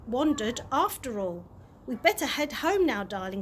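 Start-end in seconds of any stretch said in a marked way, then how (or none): 1.9-3.4 softly. Acted. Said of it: "said Dad softly".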